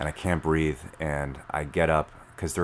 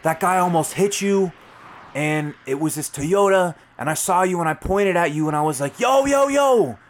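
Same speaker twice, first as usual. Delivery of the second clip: loud, high-pitched imitation of hyped-up guys; adrenaline-pumped yelling; 14 semitones higher, 7 dB louder than usual. Passengers telling the rider he almost got hit, yelling on adrenaline. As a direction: shout it like an amped witness. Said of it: "hopping up and down on adrenaline".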